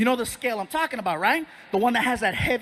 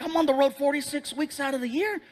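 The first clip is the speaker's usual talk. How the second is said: slightly put-on higher voice; patient answering; 4 semitones higher than usual. Patient telling the doctor about travel, lightly higher voice. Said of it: "I'm like".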